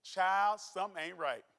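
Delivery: put-on old Mississippi folk wisdom, Southern accent and all; a Southern elder telling the listener straight, in a Southern accent; Mississippi saying. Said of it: "as they say down in Mississippi".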